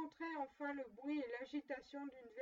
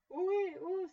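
loud, higher merry hail; jovial hail; 5 semitones higher, 9 dB louder than usual. A narrator's reading. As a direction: call out like a delighted old master. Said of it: "s'écria le vieux Fezziwig".

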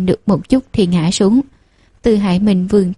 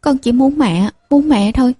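put-on child's wail; 5 semitones higher than usual. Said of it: "Bảo Nam lại gào lên".

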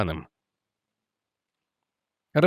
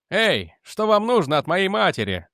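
higher, agitated yell at the intruder; young man shouting; 7 semitones higher than usual. A narrator's reading. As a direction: demand it, half shouting. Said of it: "закричал он".

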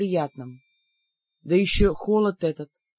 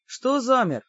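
mocking whisper; 5 semitones higher, slower than usual. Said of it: "насмешливо шепнул призрак".

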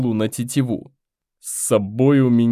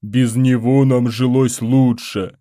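slow, louder resentful creature voice; grumbling warrior; 4 dB louder, slower than usual. Acted. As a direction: drag it out with a grudge. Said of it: "отозвался воин".

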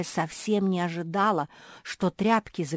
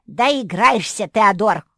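louder, slow menacing growl; angry threat; 5 semitones higher, 13 dB louder, slower than usual. A narrator's reading. The second dragon warns Teodor, angry. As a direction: threaten him slowly. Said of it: "разозлился второй дракон".

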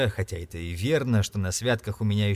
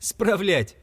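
higher, surprised exclamation; exclaiming; 9 semitones higher than usual. A narrator's reading. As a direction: cry out the word in disbelief. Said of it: "воскликнул племянник". (восклицая, выше)

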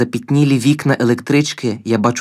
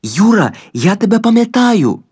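high, loud and elated calling out; joyful shout; 9 semitones higher, 4 dB louder than usual. A narrator's reading. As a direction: shout his name in glad recognition.

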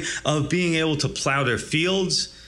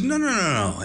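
angry refusal. Retold or imitated. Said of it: "He's angry about that".

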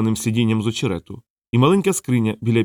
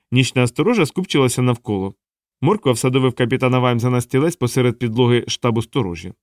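ordinary delivery, nothing marked

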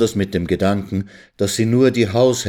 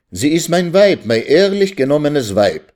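high, loud, impassioned protest; impulsive outcry; 7 semitones higher, 4 dB louder than usual. A narrator's reading. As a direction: cry out, forgetting yourself. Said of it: "rief, sich vergessend".

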